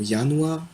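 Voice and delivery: Januar said "yanouar"; J pronounced as Y. Shown as a demonstration. Teacher's example word Januar, J said as y. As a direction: start Januar with a y glide. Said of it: "ça se prononce Y".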